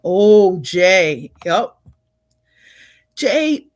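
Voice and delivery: a loud, delighted "oh" at a new arrival; light up as a friend appears; pleased surprise. Real, not acted. Host notices Jay has joined, loud pleased surprise.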